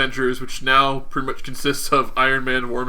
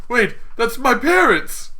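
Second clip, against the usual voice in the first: higher, drawn-out dawning alarm; mock shocked realization; 9 semitones higher than usual. Retelling Iron Man spotting his parents on video, mock shock. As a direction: let it rise and stretch in mock shock.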